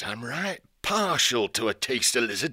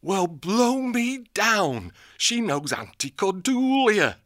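put-on amazed old owl. Old owl marvelling at the fortune teller. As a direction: marvel at it like a simple old bird.

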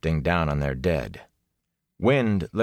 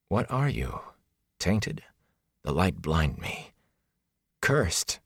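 put-on frightened girl; 4 dB quieter, slower than usual. Egwene's frightened outburst voiced.

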